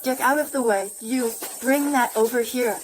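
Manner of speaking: brusque order. Acted. Woman ordering people aside, brusque and commanding. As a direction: order people about impatiently.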